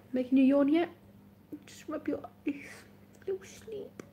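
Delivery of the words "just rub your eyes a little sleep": soft lulling whisper, higher; hushed bedtime coaxing; sleepy whisper. Pretend. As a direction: whisper them toward sleep.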